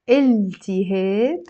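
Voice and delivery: التهاب said slowly as "il-ti-heb", holding the l; 拆开示范发音. Shown as a demonstration. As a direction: draw out each syllable of التهاب. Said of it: "Let's break this down".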